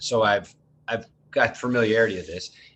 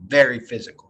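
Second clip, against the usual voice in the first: very physical hit louder, very punched; stress on very physical; 2 semitones higher, 6 dB louder than usual. Real, not acted. Speaking of grief, stressing how physical it felt. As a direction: lean hard on very in very physical. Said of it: "I really want to emphasize this physicality".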